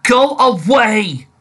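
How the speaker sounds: slow, high, loud eerie drawl; imitating the ghost voice. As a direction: stretch out the haunting warning. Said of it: "I'm positive I heard".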